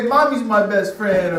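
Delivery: put-on mildly childish, stressing Mommy's; pouting little boy. Little son punishing daddy, mild childish pout. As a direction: sulk and pick Mommy's instead. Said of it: "He'll say".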